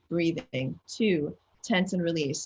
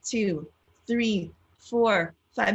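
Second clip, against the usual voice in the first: counting along; 3 semitones higher, much slower than usual. Shown as a demonstration. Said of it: "Go ahead, do it with me for five seconds".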